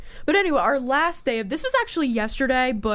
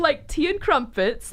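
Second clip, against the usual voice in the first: put-on British accent; 4 semitones higher, slower than usual. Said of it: "let's hear the best British accent you have".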